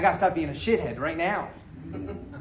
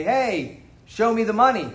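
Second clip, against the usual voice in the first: movie quote; 5 semitones higher than usual. Retold or imitated.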